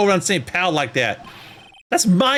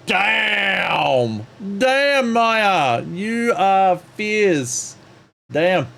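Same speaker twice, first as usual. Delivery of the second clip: impressed exclamation; 3 semitones higher, much slower than usual. Real, not acted. Reacting to harsh line.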